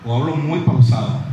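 drawn-out, sleepy pace; very slow. Shown as a demonstration. Lecturer shows students a too-slow rhythm. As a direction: drag every word out slowly. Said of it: "hable pausado".

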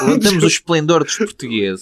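ad slogan voice. Acted. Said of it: "aqueles anúncios que eles fazem".

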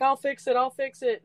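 high, eager reassurance; hurried promise. Retold or imitated. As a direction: quickly promise to fix it. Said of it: "I was like".

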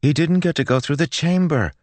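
put-on high, stubborn girl's protest. A narrator's reading. Girl argues back at the priest, stubborn. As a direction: dig in and insist. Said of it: "Melody said stubbornly".

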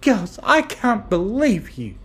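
high, loud, drawn-out reproach; dismayed. Acted. Fluttershy rising from the table, dismayed at friends.

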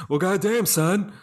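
high-pitched playful Southern wrestler impression; Southern accent. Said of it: "Southern accents, I just found them fun".

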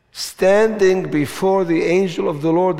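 emphatic scripture reading; firm, declaring preacher's reading; reading with conviction. Shown as a demonstration. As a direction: proclaim the verse with conviction. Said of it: "and with conviction".

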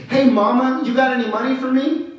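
brash street hustle, hand out; pushy street beggar. Retold or imitated. Panhandler asks the old woman.

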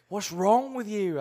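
loud, high, slow disbelief; baffled exclamation. Retold or imitated. Retelling the musician's reaction to him, loud and baffled. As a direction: stretch it out, incredulous.

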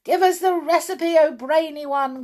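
high, loud impatient witches; impatient cry. A narrator's reading. Witches to their leader, impatient cry. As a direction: demand it now. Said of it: "cried the audience impatiently".

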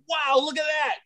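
high-pitched mock amazement; retold boyish wonder. Comic as a child watching pirates, mock wonder. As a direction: marvel like a little boy.

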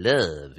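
"love" drawn out with an altered vowel, like "liv"; mystical-style LOVE. Shown as a demonstration. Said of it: "You have to say it that way".

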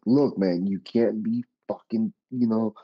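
mild re-enacted yell; retold yelling. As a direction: lay into him, retelling a telling-off. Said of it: "I started yelling at him".

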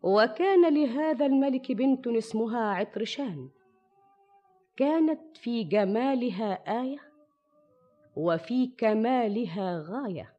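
put-on measured old storyteller narration; arabic grandma folk tale. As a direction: tell it like a fireside tale. Shahrazad begins her tale over music.

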